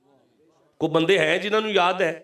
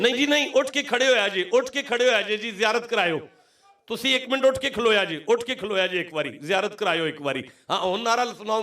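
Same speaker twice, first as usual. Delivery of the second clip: high, insistent call to the crowd; rallying preacher; 4 semitones higher than usual. Real, not acted. Preacher telling worshippers to stand and chant, rallying. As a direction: urge them up onto their feet.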